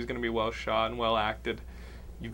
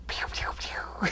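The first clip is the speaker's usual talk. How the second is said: slow, unvoiced mouth-made gunshot noises; imitated pew-pew shots; slower than usual. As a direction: mimic little gunshots with the mouth. Imitated gunfire noise in anecdote.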